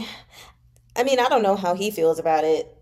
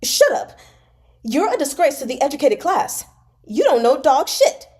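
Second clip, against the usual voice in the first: much higher, loud furious yell; angry shout; 5 semitones higher, 6 dB louder than usual. A narrator's reading. Xue Xiuyi shouts back at Pan Lin, furious and loud. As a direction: bellow him down. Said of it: "slapped the table and rose".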